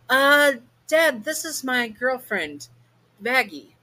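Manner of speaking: put-on bright nervous daughter introducing her girlfriend; Charlie's voice.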